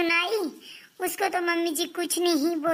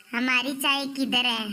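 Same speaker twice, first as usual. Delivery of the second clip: lower, sneering parody of her demand; mocking imitation; 5 semitones lower than usual. Sister-in-law mocks the younger one's tea demand, lower mock voice. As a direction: mimic the sister-in-law's question mockingly, pitched lower. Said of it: "हमसे पूछ रही है".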